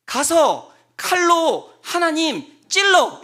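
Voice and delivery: loud, high, slow serpent's goading; loud tempter. Retold or imitated. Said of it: "이렇게 한 거예요".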